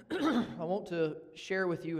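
hoarse, rough throat; frog in throat. Real, not acted. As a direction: talk through a frog in the throat. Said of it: "I've got a frog in my throat".

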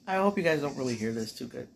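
chewing while talking; mouth full. Real, not acted. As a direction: talk through a mouthful of pretzels. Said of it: "hear me chewing on fucking pretzel sticks".

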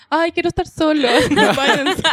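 lightly voiced grumpy teddy bear; a hint of a sulky bear, laughing; gentle bear person. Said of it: "Ah, el oso lo está diciendo".

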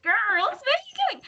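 very high, slow mimicked accent; Lewis. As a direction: imitate a TV character's questioning cry. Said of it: "When Lewis says".

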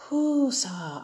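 calming breath. Shown as a demonstration. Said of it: "take a deep breath in and take a deep breath out".

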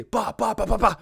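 high, punchy bah-bah-bah; mock impact noises. Storyteller sounding out a falling boulder, imitated crashes.

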